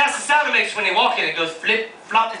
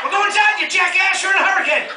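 exasperated; 8 semitones higher than usual. Retold or imitated. Comic yells back at reporter.

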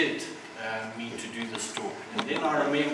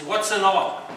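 high, loud, puzzled ask; baffled question; 5 semitones higher, 8 dB louder than usual. Retold or imitated. Noah asking the heavenly voice, loud puzzled disbelief. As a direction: blurt it out in disbelief.

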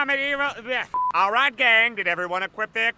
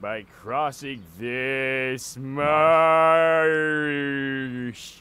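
deep slow voice; 8 semitones lower, much slower than usual. Acted. Voicing Red Thirteen.

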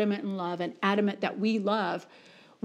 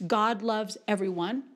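very slow, word-by-word declaration; emphatic preaching; slower than usual. Real, not acted. Preacher making it really clear to the congregation, emphatic preaching. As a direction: preach it with weighty pauses between words.

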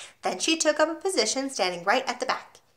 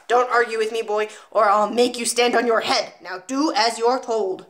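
1 threatening headmistress; 4 dB louder than usual. Acted. Trunchbull threatens the boy.

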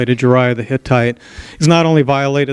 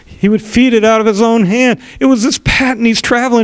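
building story; 5 semitones higher than usual. Acted. Nathan tells parable, rising.

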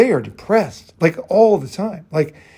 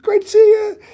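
high, louder cheerful hello; happy greeting; 4 dB louder than usual. Retold or imitated. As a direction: greet an old friend with glee. Boz greets him happily.

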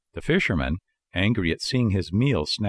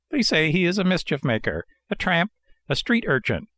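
put-on old man; 8 semitones higher than usual. A narrator's reading. Old man repeats gossip about Pinocchio.

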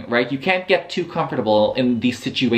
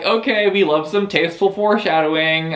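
laughing; 6 semitones higher, faster than usual. Real, not acted. Laughing reaction to the book.

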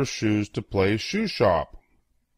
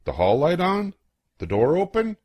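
worried grandma; 9 semitones higher than usual. Acted. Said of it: "If she asks".

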